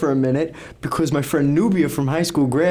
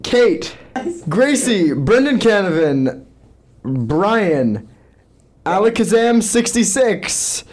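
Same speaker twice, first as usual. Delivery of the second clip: raised rapid-fire name callout; auctioneer voice; 4 semitones higher than usual. Acted. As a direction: rattle off names like an auction. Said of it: "Brendan's gonna put on his auctioneer voice".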